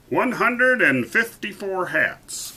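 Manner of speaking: high, slow, stretched-out count; astonished gulp. A narrator's reading. Courtier still counting the hats, high astonished gulp. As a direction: draw the number out in high dismay. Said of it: "gulped Sir Alaric".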